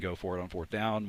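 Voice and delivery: ordinary delivery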